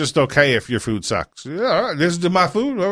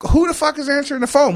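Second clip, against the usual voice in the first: high-pitched indignant outburst, retold; pissed off; 11 semitones higher than usual. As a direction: act out an outraged customer demanding answers. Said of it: "Well, I was pissed".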